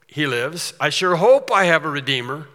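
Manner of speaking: loud, pleading, uncertain hope; mock the half-hearted wishful believer; rising, hopeful plea; wishful hoping. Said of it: "He didn't say".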